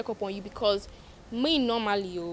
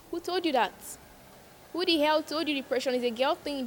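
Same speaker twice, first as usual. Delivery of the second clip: higher, outraged challenge; pitched-up disbelief at a bad idea; indignant; 4 semitones higher than usual. Real, not acted. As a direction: demand to know who said it. Indignant reply to the quote.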